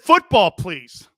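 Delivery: begging slowly and loudly; football please, dragged out with a plea; pleading, drawn out. Retold or imitated. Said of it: "He said".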